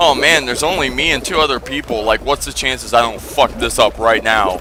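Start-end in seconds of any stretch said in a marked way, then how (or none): none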